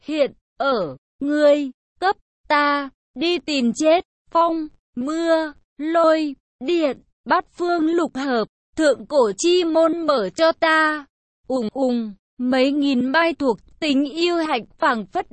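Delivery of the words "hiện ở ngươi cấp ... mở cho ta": each word spaced out and weighted; heavy, word by word. A narrator's reading. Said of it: "nặng thanh từng chữ từng chữ nói rằng".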